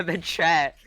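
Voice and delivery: high, giggling about the chat; laughing. Real, not acted. Caster amused by viewers' chat messages, laughing. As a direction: let the laugh spill over the words.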